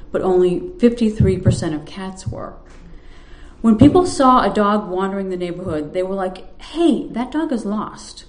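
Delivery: steady reading voice for a story; story narration. A narrator's reading. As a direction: read the tale to the room, unhurried. Reads her story aloud.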